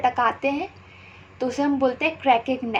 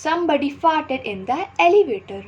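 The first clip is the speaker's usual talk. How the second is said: slow repeat, pitched higher; higher slow example read; 4 semitones higher, slower than usual. Shown as a demonstration. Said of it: "Fart means पाद". (ऊँची आवाज़ में धीमे दोहराना)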